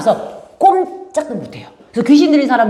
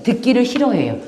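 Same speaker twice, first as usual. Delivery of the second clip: ordinary delivery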